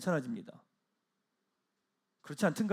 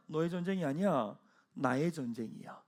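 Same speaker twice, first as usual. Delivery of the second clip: hushed reassuring voice of God; tender divine voice; 5 semitones lower, 7 dB quieter than usual. Acted. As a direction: let God speak it gently. Voicing God's words.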